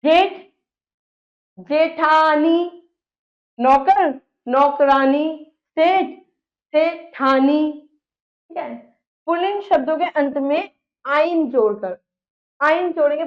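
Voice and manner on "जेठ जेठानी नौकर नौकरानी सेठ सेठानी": slow teaching demo. Shown as a demonstration. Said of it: "आनी में बदलेंगे आ को".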